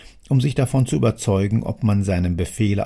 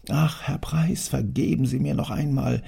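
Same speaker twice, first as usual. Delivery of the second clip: higher, half-whispered plea; pleading worker; 5 semitones higher than usual. Acted. Worker begging the angry factory owner, timid and high. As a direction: beg for pity, frightened and small.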